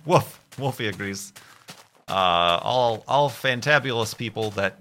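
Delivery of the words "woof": a loud playful woof; dog woof. Pretend. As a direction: bark it like a dog. Voicing the dog agreeing.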